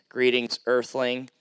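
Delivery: lightly voiced robot greeting. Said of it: "there's this robot ... he goes like this".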